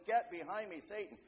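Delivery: firm, loud retold command; very strong rebuke. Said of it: "Jesus rebukes him very strongly".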